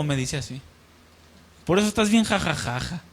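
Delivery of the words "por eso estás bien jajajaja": risa burlona. Retold or imitated.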